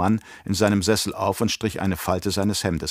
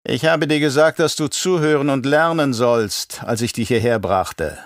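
raised, theatrical voice of a scheming baron; menacing Baron; 3 semitones higher, 3 dB louder than usual. Acted. Baron scolding his nephew, theatrical and sly. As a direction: play the Baron, condescending and sly.

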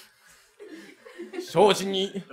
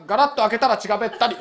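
fast and blunt; faster than usual. Shown as a demonstration. The tenant retrying on command, fast and blunt. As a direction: rattle it off quickly. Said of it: "ちょっとやれよ".

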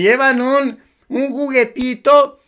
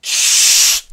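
breathy shushing sound; imitated hush. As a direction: hush someone sharply. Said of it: "le hace un gesto de". (un siseo para callar)

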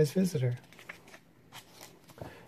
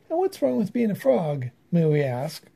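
indignant exclamation; 3 dB louder than usual. Acted. The frogs defending frogs to the other animals, indignant. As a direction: bristle with wounded pride. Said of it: "exclaimed the frogs".

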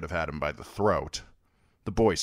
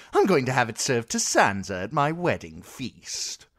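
shrill, much higher and louder, demanding; a furious spoilt child-king throwing his weight; spoilt boy king; 7 semitones higher, 4 dB louder than usual. Acted.

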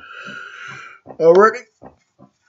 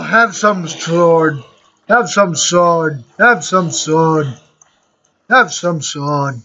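slow taunt; slower than usual. Real, not acted. Slashing mobs, taunting them.

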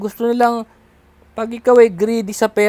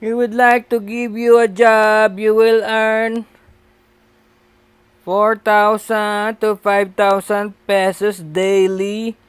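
slow, sales-script voice, a bit louder; scam caller offer; 3 dB louder, slower than usual. Retold or imitated. Speaker imitating the scam caller's job offer, slow and salesy. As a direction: read the job offer like a pushy telemarketer.

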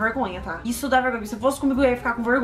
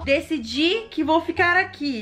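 mock reading; 5 semitones higher, slower than usual. Mock rereading of message.

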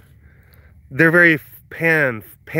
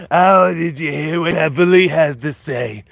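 gossipy biker chick. Retold or imitated. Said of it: "a fifty-year-old biker chick who smokes".

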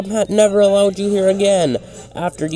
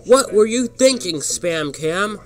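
high, raised-voice demand; angry scolding; 8 semitones higher, 5 dB louder than usual. Acted. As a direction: tell them off after a crash. Gordon scolds after the crash.

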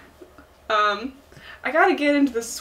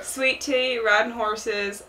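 light Southern drawl, easing into it; Southern accent; much slower than usual. Shown as a demonstration. Warming up for Tom Nook, light Southern accent. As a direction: try out a slow Southern accent. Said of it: "Think about Southern things".

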